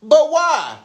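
wary and a bit amused; lightly voiced puzzled Jesus; mock suspicious. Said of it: "he's like".

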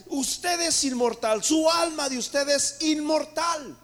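loud, slow, drawn-out proclamation; preaching at full force. Acted. Pastor assures the congregation they are immortal, booming slow preaching. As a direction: hammer each word home to the church.

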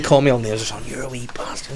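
half-whispered mock grumble; hushed retold insult. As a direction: mutter it under the breath. Boss whispers insult in retold story.

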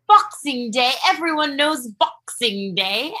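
imitating a posh British accent, lightly; slow down into a light British accent. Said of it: "he has this, the cutest little British accent".

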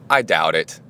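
calm. Retold or imitated. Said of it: "I calmly looked at the guy".

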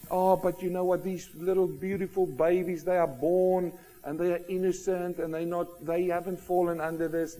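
gentle, cooing objection put on for effect; mock pleading. Preacher mimics people defending babies to his congregation, mock pleading. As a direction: softly imitate someone defending innocent babies.

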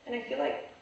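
words pushed out on a burp. Real, not acted. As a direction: speak through a burp. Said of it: "that was a burp".

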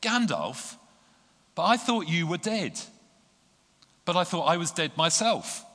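high, loud breathless wonder; gasping amazement. Acted. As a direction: gasp it out in disbelief and joy. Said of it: "At last he gasped".

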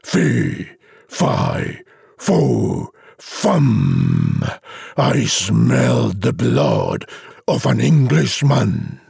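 slow giant's chant, dropping low in places; lightly voiced giant, each word drawn out and separate; mock giant shout. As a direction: intone it slowly as a hint of a menacing giant. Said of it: "It shouted loud".

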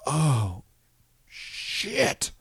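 mild mock panic, breathy curses; panicked swearing. Trainer realises the show is in Korea, panicked swearing. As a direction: imitate the coach cursing under his breath. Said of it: "He just starts to, all these expletives".

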